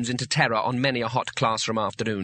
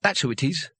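forced deep voice; 3 semitones higher than usual. Acted. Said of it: "in as deep a voice as he could manage".

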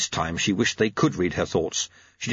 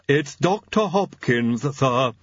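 slow, lisping servant announcement; lisping manservant; Igor; 5 semitones higher, slower than usual. Acted. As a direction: announce it with a lisp, pitched up. Igor announces visitor in character.

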